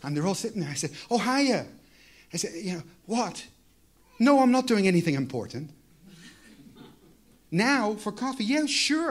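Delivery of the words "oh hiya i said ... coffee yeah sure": casual phone chat. Pretend. Staged phone call in sermon.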